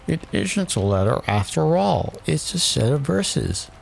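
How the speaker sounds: high-pitched royal attendant; White Rabbit. A narrator's reading. White Rabbit addressing the king, high voice. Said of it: "and added".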